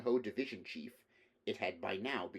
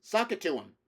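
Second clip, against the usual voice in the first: enthusiastic heckler shout; 8 semitones higher, 7 dB louder than usual. Acted. Audience member heckling the speaker, enthusiastic loud shout. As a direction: shout it up from the crowd, much louder and higher. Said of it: "A voice from the audience".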